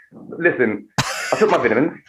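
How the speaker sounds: lightly put-on English gentleman accent; insufferably British pronunciation; a hint of pretentious British accent; affected British accent. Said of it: "I would be an intolerable gentleman".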